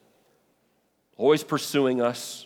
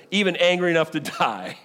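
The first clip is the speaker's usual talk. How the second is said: higher, mildly indignant comeback; retort; 5 semitones higher than usual. Acted. Preacher reading Jonah's defiant answer to God, retorted. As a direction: push back with a touch of anger. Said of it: "Jonah retorted".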